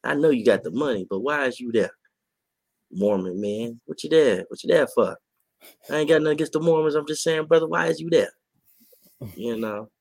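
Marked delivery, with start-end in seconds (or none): 0.0-8.3 incredulous calling out. Retold or imitated. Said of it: "I'd be like".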